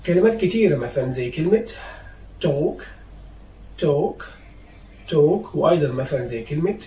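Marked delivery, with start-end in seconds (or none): 2.4-5.5 "talk" with no L sound; silent L. Shown as a demonstration. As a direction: model "talk" carefully, vowel straight into k. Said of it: "I will start with silent letter L".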